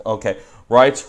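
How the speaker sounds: reading it in patois. Shown as a demonstration. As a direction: sound out the patois words. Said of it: "write article in a V U dialect".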